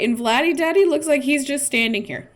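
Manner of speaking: talking through hiccups; words broken by hiccups. Real, not acted. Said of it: "I have the hiccups right now".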